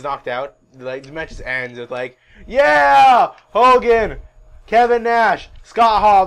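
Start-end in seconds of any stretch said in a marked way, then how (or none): 2.5-6.2 loud, high victory shout; mock triumph. Host announcing the winning trio, hammed-up triumphant shout. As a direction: yell the names in celebration.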